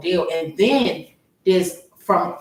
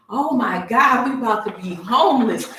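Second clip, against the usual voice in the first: mock panic; 5 semitones higher, 4 dB louder than usual. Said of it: "That's how I was feeling".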